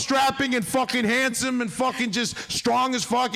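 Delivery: high-pitched, laughing indignation; worked-up comic rant. Real, not acted. Comic telling friends he carried his dying uncle's box, worked up.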